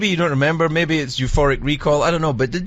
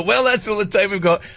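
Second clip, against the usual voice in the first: host wrap-up voice; 4 semitones higher than usual. Retold or imitated. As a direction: cut the guest off like a showman. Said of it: "I would just go".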